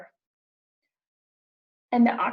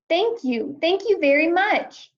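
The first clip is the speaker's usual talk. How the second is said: bubbly thanks; 6 semitones higher than usual. Acted. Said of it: "bubbled playfully".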